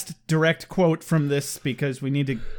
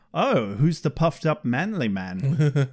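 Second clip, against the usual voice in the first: mocking Spike; slower than usual. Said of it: "And Spike's like".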